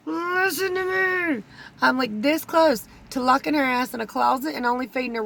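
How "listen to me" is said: slow, much higher, firm mock warning to mama; stern plea. Daughter scolding her diabetic mother, slow and firm. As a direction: lecture her slowly, like a fed-up child. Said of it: "And I'm like".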